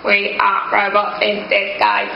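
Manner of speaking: deliberately bad robot impression, slow. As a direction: intone it like a cheap toy robot. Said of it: "Really bad robot voices".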